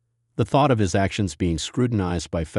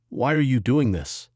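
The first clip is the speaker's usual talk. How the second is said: desperate; 5 semitones higher than usual. Acted. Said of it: "his voice more desperate now".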